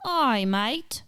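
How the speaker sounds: trying out an Aussie accent; lightly faked Australian greeting. Shown as a demonstration. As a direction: attempt a broad Aussie twang. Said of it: "how does an Australian accent sound".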